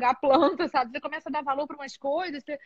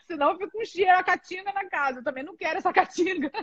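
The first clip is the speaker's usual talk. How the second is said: higher voice, amused through laughter; laughing complaint, pitched up; 5 semitones higher than usual. Real, not acted. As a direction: joke through real giggles. Joking about smelly unbathed kids.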